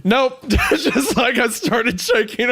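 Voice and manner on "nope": much higher, sharp yelp of refusal; hammed-up high nope, rising; mock panicked nope. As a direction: fake a startled squeak. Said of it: "And I was just like".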